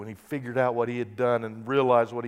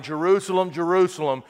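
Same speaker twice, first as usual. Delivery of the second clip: higher, louder anguished plea; impassioned tearful cry to Jerusalem; crying lament; 7 semitones higher, 8 dB louder than usual. Retold or imitated. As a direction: cry out over the city. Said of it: "he was crying".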